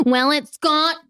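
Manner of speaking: prissy high disapproving parent; fussy parent. Retold or imitated. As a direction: play the preachy health-food parent. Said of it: "be that parent who's like".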